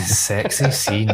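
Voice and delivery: slow, drawn-out Scottish "Sexy scene"; thick Scottish accent. Shown as a demonstration. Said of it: "I actually like the way you say that in your Scottish accent".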